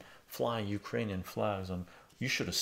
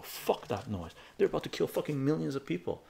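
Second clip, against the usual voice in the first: retold angry reply; 4 semitones higher than usual. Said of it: "I go".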